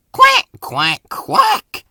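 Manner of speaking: loud, mocking duck quacks, last one high; interrupting quacks. A narrator's reading. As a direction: cut in with teasing quacks. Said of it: "interrupted Donald".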